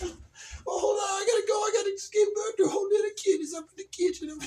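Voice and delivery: silly high-pitched cat lady; cat woman. Acted. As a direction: excuse yourself as a batty cat waitress. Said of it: "She's a cat woman".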